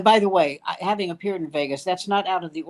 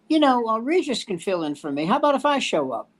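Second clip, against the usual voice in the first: higher mock Joey Bishop; 5 semitones higher than usual. Joey Bishop voiced offering.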